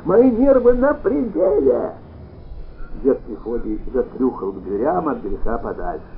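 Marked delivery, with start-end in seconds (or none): 0.0-1.9 much higher, louder, slow hysterical shriek; man shrieking at the old grandfather. A narrator's reading. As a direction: screech it, nerves shot. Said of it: "завизжал".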